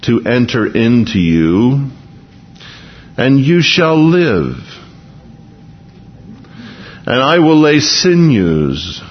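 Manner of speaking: slow, solemn reading of scripture. Acted. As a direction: read each phrase slowly and weightily. Reads Ezekiel scripture slowly.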